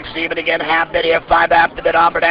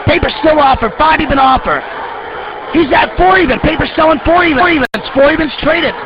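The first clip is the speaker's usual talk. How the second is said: higher, urgent rapid-fire price calling; frantic trading floor shouting; 5 semitones higher than usual. Real, not acted. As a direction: call the prices out over the pit. Live pit calling as prices crash.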